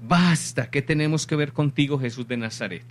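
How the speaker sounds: mild mock cry that quickly subsides; grito del demonio imitado. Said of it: "Y él comenzó a gritar". (grito moderado de demonio, imitado)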